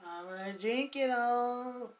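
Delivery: slow, drawn-out teasing taunt. Real, not acted. Answering Shannon's "you wish", slow drawn-out taunt. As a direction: stretch every word to rub it in. Repeats taunt after reply.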